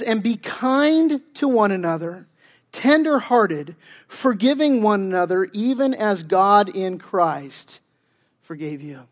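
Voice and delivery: slow, measured Bible reading; scripture reading. Real, not acted. Pastor reading Paul's words to the congregation, slow scripture reading. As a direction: read the verse out slowly, phrase by phrase.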